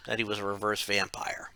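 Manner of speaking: hushed, secretive whisper. Acted. Repeats the secret reveal.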